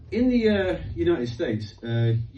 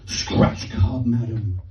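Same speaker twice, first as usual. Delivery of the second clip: street hawker; 2 semitones lower, 5 dB louder, much slower than usual. Retold or imitated. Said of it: "Milton said".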